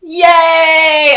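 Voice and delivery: high, loud cheer. Pretend. Mock party crowd cheering the new chief, excited. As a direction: celebrate with them. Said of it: "Everybody celebrates".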